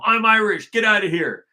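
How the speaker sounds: loud retold order in a put-on African accent; mock African accent. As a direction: imitate an African-accented guard shouting. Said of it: "got an African accent".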